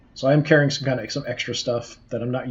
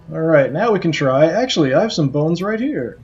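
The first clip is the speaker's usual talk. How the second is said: lightly voiced eager skull; a pompous skull, a bit raised; talking skull voice; 2 semitones higher, 5 dB louder than usual. Reads the talking skull's lines.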